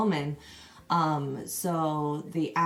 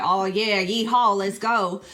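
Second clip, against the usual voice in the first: louder mock redneck holler with a yeehaw; redneck imitation; 2 semitones higher, 7 dB louder than usual. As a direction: whoop it up like a good ol' Southern redneck, half joking. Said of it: "rednecks that are just like".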